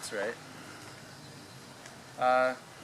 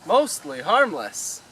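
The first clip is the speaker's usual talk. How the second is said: indignant repeat; 9 dB louder, much slower than usual. Acted. Arthur repeats the entry, louder.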